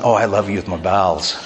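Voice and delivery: soft, laughing mock love line; half-laughing, softly sending up the phrase; mock tender declaration. Preacher teasing his congregation with a mock lover's line, soft and laughing. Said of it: "You ever tell someone".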